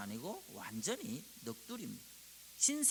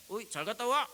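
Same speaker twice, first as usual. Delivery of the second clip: gruff Busan man; 6 semitones higher, 7 dB louder than usual. Retold or imitated. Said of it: "부산 남자는 그래 안 해요".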